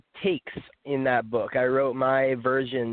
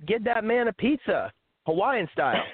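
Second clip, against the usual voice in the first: retold yell; 6 semitones higher than usual. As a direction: re-enact calling across the room, lightly. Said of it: "I yelled out".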